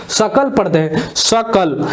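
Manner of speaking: सकल said slowly and clearly, the vowel plain; model pronunciation. Shown as a demonstration. Teacher to students, modelling how सकल is read. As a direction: repeat सकल slowly for the class. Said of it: "ए का sound निकल रहा है".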